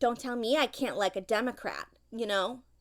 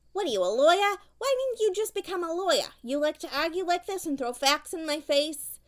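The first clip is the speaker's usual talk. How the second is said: exasperated; 5 semitones higher, 4 dB louder than usual. Real, not acted. Mother snapping at arguing child.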